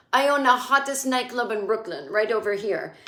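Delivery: imitating a vague European accent; terrible foreign accent. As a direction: put on a dubious French-or-German accent. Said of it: "he's got this terrible accent".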